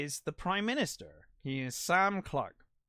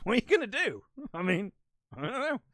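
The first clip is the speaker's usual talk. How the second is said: chuckling through the words, pitched up and louder; laughing; 8 semitones higher, 5 dB louder, faster than usual. Real, not acted. Podcaster laughing at the idea of an action-star president, laughing. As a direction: laugh it off in disbelief. Joking about nuke codes.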